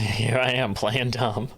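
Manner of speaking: mock dumb. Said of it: "Play dumb".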